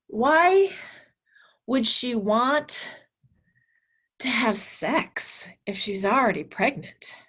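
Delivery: put-on upset boy. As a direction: mimic the upset student pressing why. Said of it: "he was very upset".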